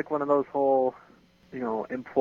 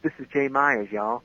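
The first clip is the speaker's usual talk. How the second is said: lightly put-on Southern accent. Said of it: "you can do a southern accent".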